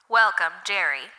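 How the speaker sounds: loud robotic loudspeaker greeting; booming computer voice. Acted. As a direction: boom it out like a machine announcer. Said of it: "a computerized voice boomed over the loudspeaker".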